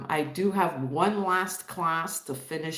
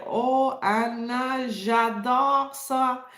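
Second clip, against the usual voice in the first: imitating delighted friend; 7 semitones higher, 4 dB louder, much slower than usual. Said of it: "she's like".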